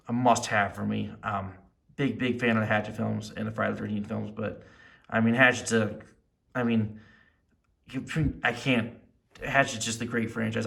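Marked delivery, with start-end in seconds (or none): 5.1-8.9 halting false starts with pauses; stuttering. Real, not acted. Fan in awe of his Hatchet figure, stuttering. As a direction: fumble for words, breaking off and restarting. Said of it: "sorry, I'm kinda stuttering".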